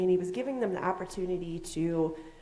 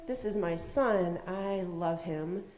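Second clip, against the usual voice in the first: lightly voiced God, slow and measured; voice from heaven; slower than usual. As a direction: proclaim it slowly, at normal volume. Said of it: "a voice from heaven that said".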